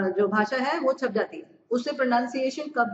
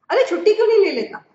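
high, fast, louder scolding boss; 9 semitones higher, 7 dB louder, faster than usual. Acted. Annoyed boss scolding a staffer, high, fast and loud. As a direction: bark it like an annoyed boss asking why.

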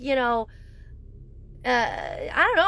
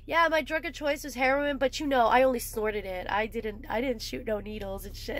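mock justification; 3 dB quieter than usual. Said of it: "if I was like".

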